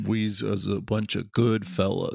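Goodfellas mobster. Retold or imitated. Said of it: "recreating Goodfellas".

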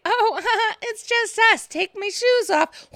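high, slow giggly coo. Acted. Woman pretending to relax before striking, high and giggly. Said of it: "pretending like".

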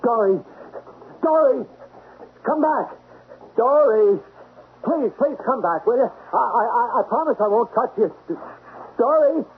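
high-pitched calling after someone who fled; pleading call. Acted. Man begging fleeing woman to come back, pleading.

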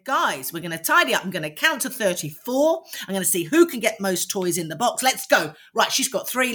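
assertive, playful TIDY UP as a statement; rally them briskly to TIDY UP, no question in it; meaning business. Shown as a demonstration. Coach demonstrating a tidy-up game to kids, meaning business. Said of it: "you have to mean it. And I call it meaning business".

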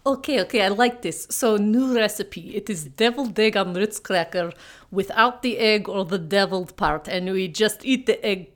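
hammed-up mock Russian accent, dropping articles; bad Russian accent. The speaker greets her co-host in a bad Russian accent. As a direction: play a cartoon Russian host badly. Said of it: "speak in bad Russian accents".

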